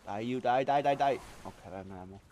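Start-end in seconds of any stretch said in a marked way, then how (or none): 0.1-1.2 building, louder battle chant; combat yell. Real, not acted. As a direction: build to a loud yell at the enemy. Shooting at enemies in game.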